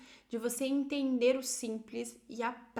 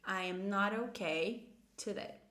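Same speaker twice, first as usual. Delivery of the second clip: slow, more connected English sentence; slow model negative; 3 semitones lower, slower than usual. Shown as a demonstration. Teacher repeats the negative answer, slow and connected. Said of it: "você vai dizer usando uma negativa".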